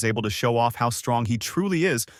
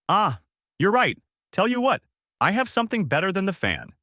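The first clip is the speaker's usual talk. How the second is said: much higher character voice; grimacing old master; 10 semitones higher than usual. A narrator's reading. Roshi admits to Turtle he's right, mildly pained. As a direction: voice Roshi pitched well up, conceding. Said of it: "Roshi grimaces and says".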